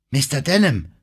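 besorgter Ruf, höher; rufen. A narrator's reading. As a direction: rufe nach dem Anführer. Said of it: "rief Jimmy". (aufgeregter Zuruf mit hoher Stimme)

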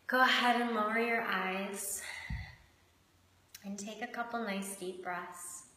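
measured meditation guiding with long pauses; guided meditation. Acted. Host guiding listeners into connection with shark and hummingbird, unhurried meditation voice. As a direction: lead them gently inward, leaving space between phrases.

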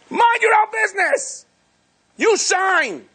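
divine rebuke. Pretend. God scolding the angel to do his job, shouted. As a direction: bellow the order down at the angel.

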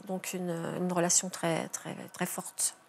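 plus lent, presque soufflé jusqu'au silence; la gorge se serre sur très forte; voix qui s'éteint. Real, not acted. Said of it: "émotion en parlant du petit-fils". (une grand-mère émue dont la voix se brise)

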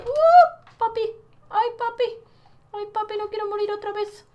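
high panicked cries; panicked shriek. Real, not acted. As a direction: shriek in fright.

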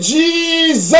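high, drawn-out mock cry; hammed-up exclamation of shock; retold shout. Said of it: "the man shouted".

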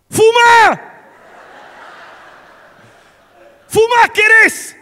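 mock brother shrieking at mom to smoke; brother's furious yell. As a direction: bark the order at mom like a drill sergeant. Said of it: "le estaba diciendo esto en este tono".

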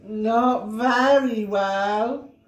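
slow, yawned reply; yawning. Acted. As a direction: drag it out through a big yawn. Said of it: "yawned Mister Bear".

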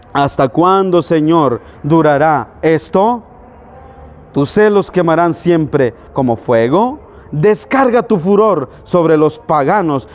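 slow, solemn psalm recitation; scripture reading. Acted. Preacher reading the psalm's plea to God, slow recitation. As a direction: draw out the psalmist's plea phrase by phrase.

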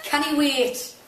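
lightly imitated bandmate's accent; a bandmate's accent. Bandmate quoting another's catchphrase, lightly imitated accent. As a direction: borrow your bandmate's accent, drawn-in catchphrase. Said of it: "as she would say".

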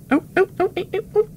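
very high excited squeal. Acted. Gamer thrilled at the landscape, squealing. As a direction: squeal with delight.

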